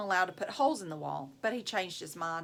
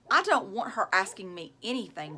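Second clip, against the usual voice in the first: snapped; 4 dB louder than usual. Acted. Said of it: "Jeff snapped".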